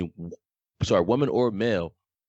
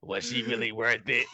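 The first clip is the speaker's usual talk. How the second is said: raspy smoker voice; rough, smoky rasp; smoker's voice. Retold or imitated. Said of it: "why you sound like a smoker".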